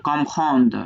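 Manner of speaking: "comprendre" halted on its final consonants; vowelless ending. Shown as a demonstration. Teacher showing a hasanta ending, "comprendre" stopped without a final vowel. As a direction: end "comprendre" on the d, with no vowel after it. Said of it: "হসন্ত দিয়ে যেরকম উচ্চারণ করি".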